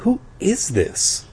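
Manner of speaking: slow, high, insistent question; demanding. A narrator's reading. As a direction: demand an answer, stretching the words. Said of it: "I demanded".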